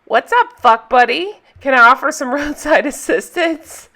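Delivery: imitating an obnoxious guy pulling up; cocky jerk. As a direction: toss it out as a lightly voiced jerk. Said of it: "douchemobile and acting like himself".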